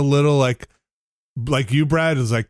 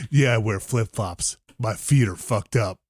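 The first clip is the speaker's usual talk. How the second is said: lower, slow, deadpan salesman imitation; slow mock salesman; 6 semitones lower, 3 dB quieter than usual. Retelling the salesman's odd remark, slow low imitation.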